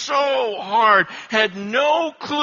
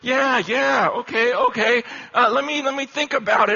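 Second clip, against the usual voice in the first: imitated eager, clueless agreement; overly agreeable bluffing; pretending to understand; 3 semitones higher than usual. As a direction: play along as if you follow it all. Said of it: "pretending I know what he's talking about".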